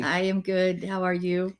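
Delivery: flat mechanical robot voice. Pretend. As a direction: answer like a stiff robot. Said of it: "why are we talking like robots".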